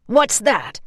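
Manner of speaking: spotting something; alarmed. A narrator's reading. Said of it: "the first man said".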